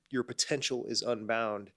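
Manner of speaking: nasal, stuffed-up voice; talking through a clogged nose; blocked nose. Real, not acted. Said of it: "excuse my nasally voice".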